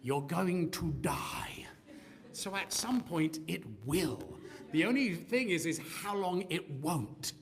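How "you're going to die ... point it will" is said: breathy slow whisper of doom. Acted. Preacher whispers the certainty of death to the congregation. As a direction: hush it like a grim secret.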